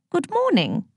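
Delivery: calm Queen. A narrator's reading. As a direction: greet them calmly like royalty. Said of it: "she said calmly to her visitors".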